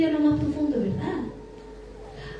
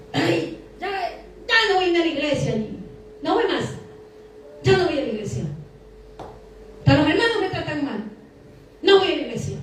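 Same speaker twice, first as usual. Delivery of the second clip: mock grumbling churchgoer; lightly acted whiny refusal; sulky complaint; 2 semitones higher than usual. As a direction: complain petulantly like someone quitting church. Mimics a sulking churchgoer.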